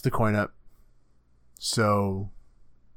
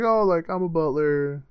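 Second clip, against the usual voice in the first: mock butler voice; 7 semitones higher than usual. Acting out the butler character.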